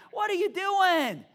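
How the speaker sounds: loud, high, drawn-out disbelief; exasperated scolding. Acted. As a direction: stretch it out in hammed-up outrage. Acted scolding of Peter.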